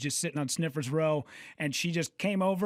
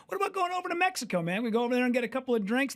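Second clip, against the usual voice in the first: high fast mock voice; 5 semitones higher, faster than usual. Asking buddy about Mexico trip.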